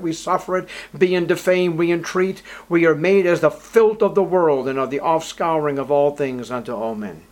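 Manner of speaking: loud, bitter irony on each contrast; mock humility, pressed hard; sarcastic reading. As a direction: hammer the contrasts with scorn. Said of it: "that was sarcasm dripping".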